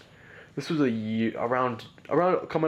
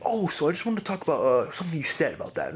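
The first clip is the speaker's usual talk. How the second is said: higher, mock-innocent dad; 6 semitones higher than usual. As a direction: imitate dad feigning calm. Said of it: "he picks me up".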